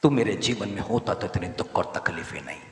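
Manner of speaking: fervent prayer, said for the people to repeat; spoken prayer of surrender; leading a prayer. Acted. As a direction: pray it aloud, leading the room. Leads congregation in prayer.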